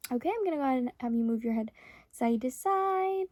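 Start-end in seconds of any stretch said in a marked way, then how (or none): 2.1-3.3 slow instructions. Acted. Instructing client slowly.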